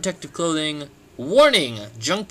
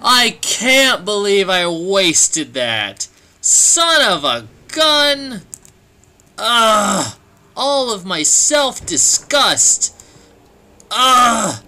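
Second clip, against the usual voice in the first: slow, louder hammed-up lament; mock despair drawl; 5 semitones higher, 6 dB louder, much slower than usual. Real, not acted. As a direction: drag each word out in theatrical disgust. Wasted an item.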